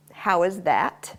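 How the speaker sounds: cue drawn out slowly. Shown as a demonstration. Trainer demonstrating the button cue to viewers, slow and drawn out. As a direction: stretch the cue "How is that?" slowly. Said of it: "give him his command, which is".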